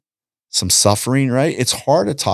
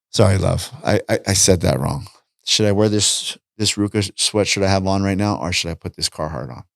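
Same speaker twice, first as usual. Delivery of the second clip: lower, gentler apology; tone brought down; 3 semitones lower than usual. Retold or imitated. Humbly redoing the question to his wife, lower and gentler. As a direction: soften it and apologize. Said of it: "I gotta bring my tone down".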